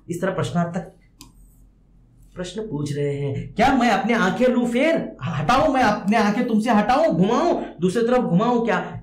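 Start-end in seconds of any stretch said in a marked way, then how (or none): 3.5-9.0 put-on raised, tentative questions to a child; questioning. Poet asks the baby about looking away, raised questioning tone. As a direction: ask it with the pitch lifted. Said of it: "इस तरह पूछ रहे हैं".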